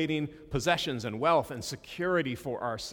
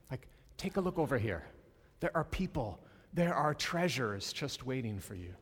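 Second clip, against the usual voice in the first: gentle reassuring Jesus. Retold or imitated. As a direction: comfort someone who worries. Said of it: "believe that Jesus is gentle".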